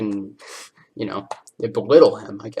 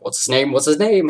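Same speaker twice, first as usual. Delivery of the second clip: rising mock panic, louder on the repeat; a half-hearted panicked chant that climbs; building panic; 6 semitones higher, 8 dB louder than usual. Brain workers frantically searching, mild mock panic.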